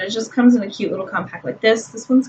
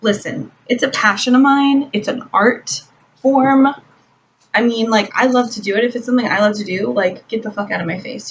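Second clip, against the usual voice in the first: mock heated retort to people telling her she doesn't need makeup; irritated retort; 3 semitones higher than usual. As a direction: snap back at a nosy critic. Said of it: "I'm like".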